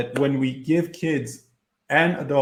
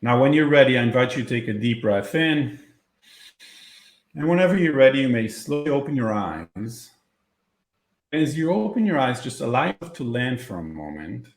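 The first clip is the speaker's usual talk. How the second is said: guided meditation. Acted. Leads a visualization.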